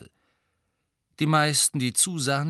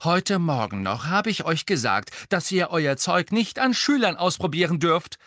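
high, loud telling-off; indignant scolding; 7 semitones higher, 4 dB louder than usual. A narrator's reading. Hermine reminding twins of this morning's warning, scolding. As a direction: lay down the law, voice raised.

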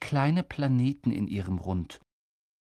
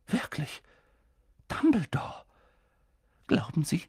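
doubting McGonagall; 6 semitones higher than usual. A narrator's reading.

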